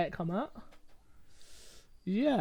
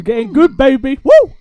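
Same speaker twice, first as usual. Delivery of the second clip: excited hype; 7 semitones higher, 14 dB louder than usual. Real, not acted. Hyping Vampire Diaries.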